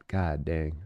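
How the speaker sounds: audio cutting out; dropping, broken mic signal; corrupted glitchy audio. Real, not acted. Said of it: "My audio is cutting out".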